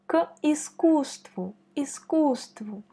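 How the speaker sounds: искусству with the middle U leaned on; stress on the U. Shown as a demonstration. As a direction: lean on the KUS of искусству. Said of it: "On met l'accent sur U".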